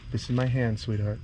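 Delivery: soft soothing. Real, not acted. Soothing lizard near hand.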